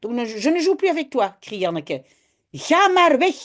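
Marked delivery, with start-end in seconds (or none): 2.5-3.4 put-on upset child. Janneke sends Jip away.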